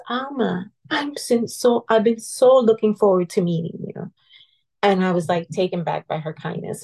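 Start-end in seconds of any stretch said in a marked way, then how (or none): 0.1-4.1 imitating a kind nun, a higher welcoming voice; lightly voiced sweet nun greeting a nervous visitor. A nun welcoming nervous Alma at the door, lightly imitated sweetness. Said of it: "such sweet way of talking to me".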